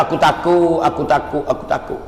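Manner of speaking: suara ketakutan yang makin perlahan; takut. Acted. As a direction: ulang dengan suara makin rendah dan lembut, hampir berbisik di hujung. Retelling Bilal's frightened answer, fading. (takut, makin perlahan)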